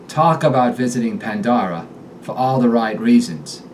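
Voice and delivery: sentence in a Boston accent; Boston vowels on "Talk" and "all". Shown as a demonstration. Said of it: "affect a wicked awesome Boston accent".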